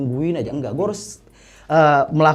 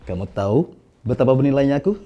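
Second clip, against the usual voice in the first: low, measured hero voice line; Fredrin; 4 semitones lower than usual. Shown as a demonstration. Voice actor shows his game hero to the host, in-character voice. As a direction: deliver it as a self-assured game character, pausing before the last line. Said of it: "Ini yang isi suara Fredrin".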